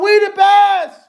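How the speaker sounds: high, loud mock DJ yell; hammed-up DJ boast; DJ shout. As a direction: belt the catchphrase like a hype man. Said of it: "Talking about".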